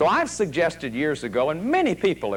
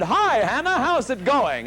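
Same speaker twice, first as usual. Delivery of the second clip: higher-pitched, cheery mock hello; acted friendly greeting; 8 semitones higher than usual. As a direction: greet a relative brightly, pitched up. Greeting aunt in acted scene.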